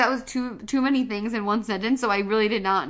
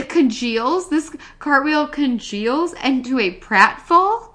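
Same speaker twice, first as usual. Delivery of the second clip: slow, louder disbelieving echo; incredulous challenge; 5 dB louder, slower than usual. Real, not acted. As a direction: pick the words apart in disbelief. Querying the cohost's muddled wording.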